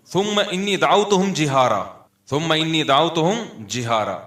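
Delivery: slow, sustained Arabic recitation; Quran recitation. Acted. Preacher quoting Noah's prayer to listeners, measured recitation. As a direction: recite the verse with drawn-out vowels.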